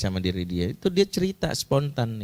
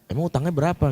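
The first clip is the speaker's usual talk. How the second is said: louder, higher, taken-aback question; startled question; 5 semitones higher, 4 dB louder, faster than usual. Retold or imitated. Husband hearing of a debt, startled and naive. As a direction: ask naively, caught by surprise. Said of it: "Dia kaget".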